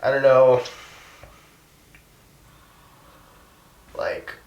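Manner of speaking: halting, with long pauses to hold it together; choked up. Real, not acted. Activist recalling five lonely years in the movement, choked up. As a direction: struggle to get the words out through real emotion. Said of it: "sorry, I'm getting verklempt".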